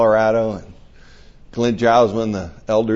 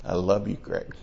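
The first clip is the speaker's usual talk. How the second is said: tender quote; 3 semitones lower, 5 dB quieter than usual. Retold or imitated. Quoting Jesus's gentle answer.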